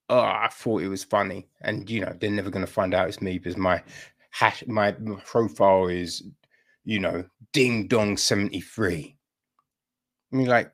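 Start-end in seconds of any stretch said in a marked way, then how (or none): 0.1-9.2 sheepish excuse. Acted. Caught commenter making excuses, acted.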